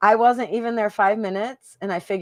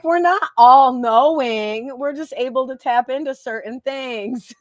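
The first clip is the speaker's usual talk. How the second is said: mock retort; 3 semitones higher, 4 dB louder than usual. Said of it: "I'm like".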